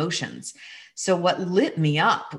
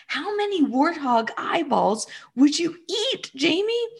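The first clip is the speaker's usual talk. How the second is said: playful teasing; 11 semitones higher than usual. Retold or imitated. Mother teasing son playfully.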